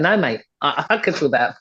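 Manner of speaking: lightly put-on Cockney accent. Coach answering a client about Pilates, mild Cockney voice. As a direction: toss it off with a touch of Cockney. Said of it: "in my Cockney voice".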